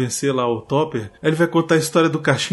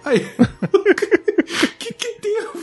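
laughing; much slower than usual. Real, not acted. Laughing at the movie scene.

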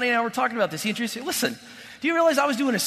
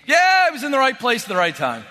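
dismissive shrug; 2 semitones higher, 3 dB louder than usual. Retold or imitated. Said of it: "said like this at a party".

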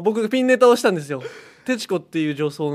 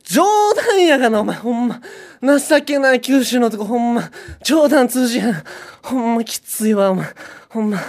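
louder Kansai dialect grumble, half laughing it off; mock-angry Kansai rant; 4 semitones higher, 4 dB louder than usual. Osaka woman turns on her ex in Kansai dialect, louder, mock angry. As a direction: scold him in Kansai dialect, covering the hurt. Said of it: "後半で関西弁をする".

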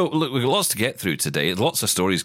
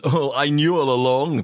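smug know-it-all; 4 semitones higher than usual. Retold or imitated.

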